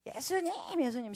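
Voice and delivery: imitating a blind man's high cry; mock crying out. Blind Bartimaeus calling to Jesus for healing, crying out. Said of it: "빡빡 소리 지른 거밖에".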